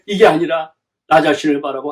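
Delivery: ordinary delivery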